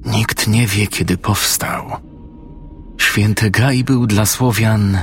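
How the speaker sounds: hushed, slightly husky character voice; low, hoarse. A narrator's reading. Praying old woman tells of the sacred grove, low and hoarse. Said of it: "kiedy znowu się odezwała".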